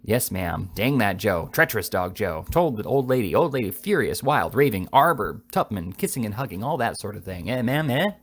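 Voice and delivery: lightly voiced rascal rattling off fragments; a touch of conspiratorial urgency; telegraphic schemer. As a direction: pile up short phrases with punchy stresses. Voices Jingle's staccato talk to the aunt.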